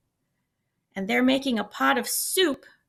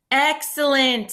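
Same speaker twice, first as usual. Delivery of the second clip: slow, louder cheer; drawn-out happy shout; 4 semitones higher, 6 dB louder, slower than usual. A narrator's reading. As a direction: greet the offer with delight. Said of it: "shouted the travelers".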